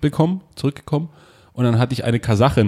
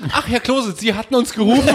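mock policeman; 8 semitones higher than usual. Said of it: "Und dann so, kommst du raus".

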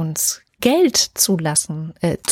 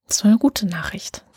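whispered. Real, not acted. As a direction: breathe it as a whisper. Whispered aside after news.

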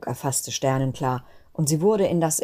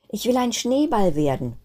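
put-on higher, bright little child's wish; eager child call; 7 semitones higher than usual. Kristallinchen calling out her wish while falling, lightly eager. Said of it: "rief Kristallinchen".

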